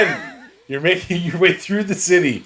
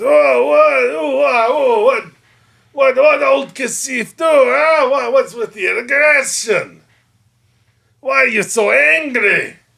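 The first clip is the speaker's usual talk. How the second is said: high, creaky, flustered stammer, each "what" stretched; 8 semitones higher, 3 dB louder than usual. Voicing Kasif who holds his hands up after a warning shot. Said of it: "he stops and he holds his hands up. He says".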